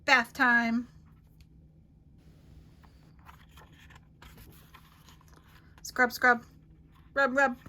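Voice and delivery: loud, cheerful mom at bath time; mom's bath voice. A narrator's reading. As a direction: bustle through it like a busy mom.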